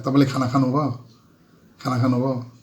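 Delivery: तपाईँले खाना खानुभयो? asked as a polite Nepali question. Shown as a demonstration. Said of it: "Nepali में भी वही होता है".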